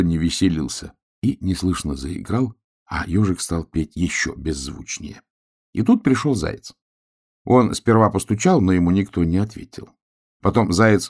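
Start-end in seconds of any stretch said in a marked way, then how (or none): none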